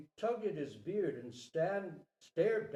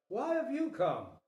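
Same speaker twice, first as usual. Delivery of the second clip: human king startled by the deer, higher and louder; a startled, raised question; called in surprise; 8 semitones higher, 5 dB louder than usual. Acted. Human king calls out to the Banyan Deer in surprise. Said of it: "he called in surprise".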